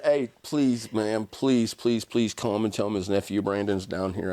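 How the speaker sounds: mildly acted begging, easing off toward the end; pleading. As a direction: beg insistently, leaning on each please. Begging jail staff to fetch pastor.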